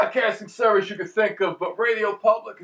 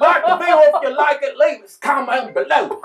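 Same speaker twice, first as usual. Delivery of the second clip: put-on country accent; 5 semitones higher than usual. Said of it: "Every outro has to be done like that".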